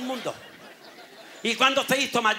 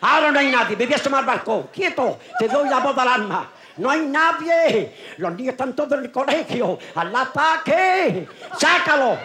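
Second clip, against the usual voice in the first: excited shouting; 3 semitones higher than usual. Acted. Father urges son outside.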